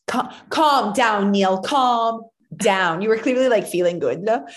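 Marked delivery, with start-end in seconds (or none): 0.1-3.0 slow drawn-out mock calm down; mock wife. Imitating the wife telling Neil to calm down, slow. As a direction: stretch calm down like a teasing imitation.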